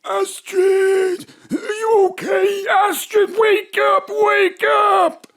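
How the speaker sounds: urgent, shouting to wake her; calling out. Acted. Bob shouts to wake an unconscious Astrid. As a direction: rouse a friend who fainted.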